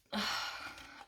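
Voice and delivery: soft, breathed-out sigh; reluctant sigh. Real, not acted. Explaining why they skipped a deck, reluctant sigh.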